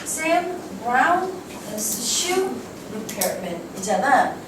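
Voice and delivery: Sam Brown is shoe repairman with rising stresses; sentence stress demo. Shown as a demonstration. Teacher models sentence stress for the class. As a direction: model the stressed words in order. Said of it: "그 다음에".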